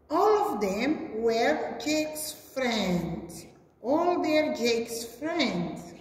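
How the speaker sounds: sing-song picture-book narration; reading to children. A narrator's reading. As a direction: read it out to small kids. Reads picture story to children.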